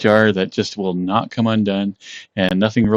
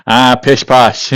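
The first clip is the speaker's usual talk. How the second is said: mock posh dismissal; 5 dB louder, slower than usual. Real, not acted. Dismissing the need for strength.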